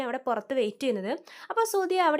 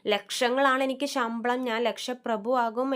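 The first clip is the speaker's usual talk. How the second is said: mock boasting; slower than usual. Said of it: "ഭയങ്കര ഡയലോഗൊക്കെ ആയിരുന്നു".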